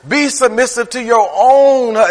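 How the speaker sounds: "own" leaned on, then the line cut off; "own" weighted, phrase cut mid-word; stress on own. Shown as a demonstration. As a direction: press "own" before breaking off. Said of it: "He emphasized that thing".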